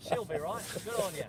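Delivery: put-on Aussie accent; playful imitation of Aussie slang and accent; Australian accent. Shown as a demonstration. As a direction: toss it off in mock Australian. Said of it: "I can sound Australian".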